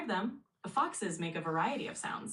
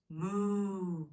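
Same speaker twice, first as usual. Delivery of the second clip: cow moo; 2 semitones higher than usual. Pretend. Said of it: "what voice does a cow make?".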